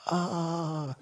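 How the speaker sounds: high held "ah" of pain; mock pained scream. King hurt on the marble floor, mock pained scream. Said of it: "could hear him screaming".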